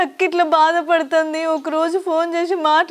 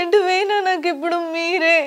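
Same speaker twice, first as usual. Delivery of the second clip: crying; 3 semitones higher than usual. Acted. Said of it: "ఏడోకు, ఏడోకు బిడ్డ".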